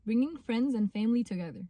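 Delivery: slow, careful read-aloud; clear, slow English reading. Shown as a demonstration. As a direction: read the label slowly, word by word. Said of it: "مكتوب عليه بالانجلش".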